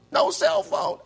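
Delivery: breathless shocked yelp; hyperventilating. Pretend. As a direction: gasp it out in fake panic. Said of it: "I'm, I'm hyperventilating".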